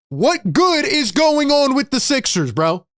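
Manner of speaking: fed up, hammer the question at chat; angry rant. Real, not acted. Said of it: "Sorry for the crash out".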